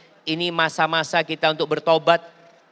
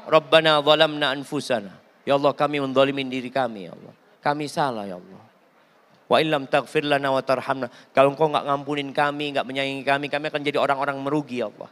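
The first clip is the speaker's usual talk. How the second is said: humble repentant prayer; 5 semitones lower than usual. Acted. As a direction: confess the sin humbly to Allah. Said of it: "Nabi Adam ditanya".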